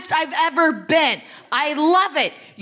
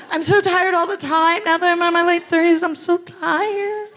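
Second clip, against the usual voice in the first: mock whiny complaint; 4 semitones higher than usual. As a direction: moan it like an exhausted friend. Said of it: "ever so whiny".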